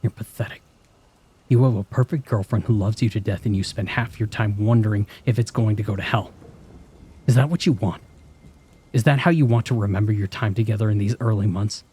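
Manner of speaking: high, loud, sneering, rising to a scream; vicious inner voice. Acted. Cruel inner critic screaming at the narrator in bed, vicious. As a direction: tear into yourself with mounting contempt.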